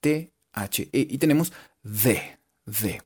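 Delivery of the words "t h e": letter by letter, drawn out; slow spelling. Shown as a demonstration. Teacher spells the slowly for students. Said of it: "Y es así".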